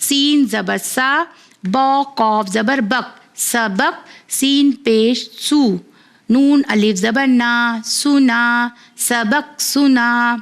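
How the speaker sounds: slow, clear letter-by-letter spelling, then blending the word; patient teacher reading a primer aloud; phonics spelling drill. Acted. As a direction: spell each syllable out for a child, then join them.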